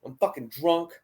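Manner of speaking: lightly voiced slow drunk; slow it down, imitating a drunk; imitated drunk woman. Drunk woman tells the group she can't drive, lightly imitated slow slur. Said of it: "'Cause she's fucked up".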